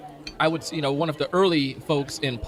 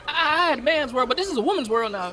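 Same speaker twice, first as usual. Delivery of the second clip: much higher, hyped singer showman; 12 semitones higher than usual. Acted. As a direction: shout it out like a soul star on stage. A singer's voice introducing Aisha.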